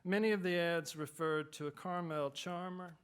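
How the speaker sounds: steady reading voice; story reading. Acted. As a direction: read it like an author at a reading. Reads his short story aloud.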